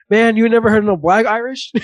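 hamming up Bernie Mac's comeback; imitating Bernie Mac. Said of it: "Bernie Mac says".

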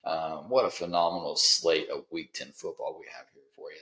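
oversell it like a game-show plug, sarcastically; sarcastic big-game build-up; heavy sarcasm. Real, not acted. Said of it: "can't catch the sarcasm in my voice".

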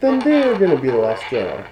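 muffled voice behind a mask; inside a rubber mask. Pretend. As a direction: talk from inside a hot mask. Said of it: "It's getting hot in this mask".

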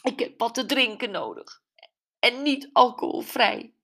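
determined Gwen. A narrator's reading. Gwen wants a drink.

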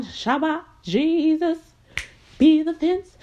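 mock church shouting. Mocking his church crowd, hammed-up shouting. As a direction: parody the congregation hollering.

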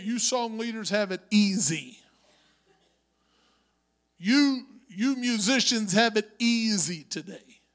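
breathy teasing whisper to the song leaders; a playful whispered dig at the song leaders; whispered aside. Real, not acted. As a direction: lean in and whisper the jab.

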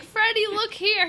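high, slow sing-song call to a pet; calling to dog. Retold or imitated. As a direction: coax the dog to look.

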